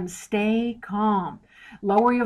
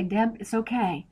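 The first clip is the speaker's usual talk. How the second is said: reassuring. Retold or imitated. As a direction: soothe someone mid-meltdown, gently. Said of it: "I need you to affirm and say".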